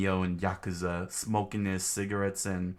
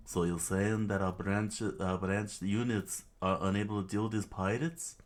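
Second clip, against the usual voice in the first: pseudo British voice. Acted. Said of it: "that pseudo British voice".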